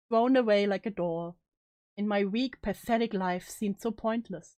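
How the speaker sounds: measured, dramatic first-person storytelling; story narration. A narrator's reading. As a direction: narrate a grim confession aloud. Reads the story aloud in first person.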